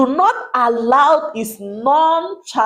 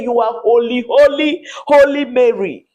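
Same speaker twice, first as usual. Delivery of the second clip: mocking taunt; 2 semitones higher, 3 dB louder than usual. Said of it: "making a caricature of you".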